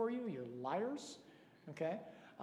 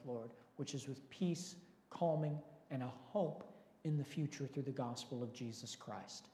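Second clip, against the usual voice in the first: measured public prayer; congregational prayer; 2 semitones lower than usual. Real, not acted.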